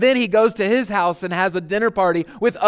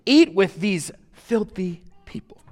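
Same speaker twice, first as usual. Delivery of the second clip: lightly acted, higher-pitched grumble of disapproval; mock grumbling; 3 semitones higher than usual. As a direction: grumble in mild disbelief, as the scandalized critics. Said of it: "they're grumbling about it and saying".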